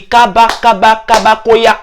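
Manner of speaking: mock-posh gibberish, slowed and a bit high; fake posh French babble. A returnee mocked for showing off his new French accent. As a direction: ham up a put-on Parisian talk. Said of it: "Il dit, ils changent de langage".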